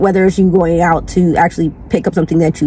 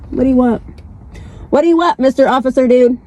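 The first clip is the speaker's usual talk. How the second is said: playful higher call to the cop; higher teasing call; 4 semitones higher, much faster than usual. Acted. Addressing a stopped cop.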